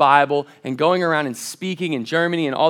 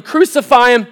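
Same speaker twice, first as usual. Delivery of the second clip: loud, high mob cry; crowd yelling; 7 semitones higher, 10 dB louder than usual. Retold or imitated. Preacher voicing the crowd at the cross, shouting high. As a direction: shout it like an angry mob demanding blood. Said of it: "we're in that crowd yelling".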